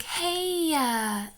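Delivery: high "Hey" then a tacked-on Utah "uh"; Utah trailing uh. Retold or imitated. Imitating locals' Utah accent, high Hey with trailing uh. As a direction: mimic the Utah habit of adding uh. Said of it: "they'll do things like".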